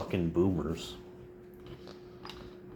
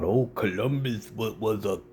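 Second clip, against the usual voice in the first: mock conservative; 3 semitones higher than usual. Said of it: "might rant and rave about".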